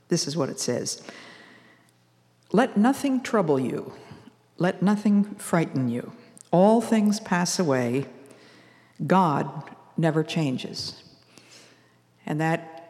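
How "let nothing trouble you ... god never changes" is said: slow, lifted recitation, each line set apart; poem recited. Shown as a demonstration. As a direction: read it like a cherished poem, slowly. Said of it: "that calms me and helps me to keep a quiet heart".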